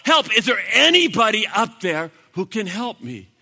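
high, loud yell for rescue; crying out for help. Retold or imitated. Jack crying out to whoever is above, desperate yell. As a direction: shout up to anyone listening. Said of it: "he cries out again".

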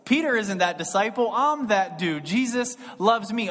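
a light, cocky "I'm that dude" boast; smug John. Retold or imitated. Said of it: "the other side of the coin is like".

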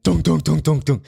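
imitated heavy door knock, evenly repeated; authoritative pounding knock. Imitating the sheriff at the door, pounding knock. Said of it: "like, authoritative, like, pounding".

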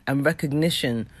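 croaky morning voice; morning voice, not yet warmed up. Real, not acted. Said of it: "this is morning voice".

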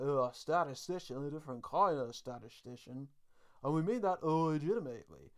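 mock newsreader with odd L's and R's; Tom Brokaw. Co-host showing how the anchor pronounces L's and R's, mock lisping newsreader. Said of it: "the way he just pronounces his".

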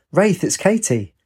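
high, slow call across the ruins; slow ringing call, high. A narrator's reading. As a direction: call out to a friend in the dark. Calling out to Wraith.

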